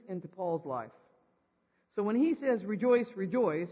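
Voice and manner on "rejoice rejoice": loud, emphatic repeated command; earnest insistence. Acted. Preacher quoting Paul, who is not kidding around, firmly insistent. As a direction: drive both words home firmly. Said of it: "he's not kidding around".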